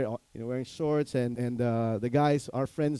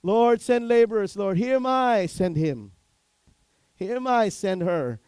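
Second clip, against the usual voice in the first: much higher, much louder hammed-up prayer; mock self-excusing prayer; 9 semitones higher, 10 dB louder than usual. Pastor mocking believers who pray for others to go, hammed-up prayer. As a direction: parody a believer volunteering everyone else. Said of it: "many of us go".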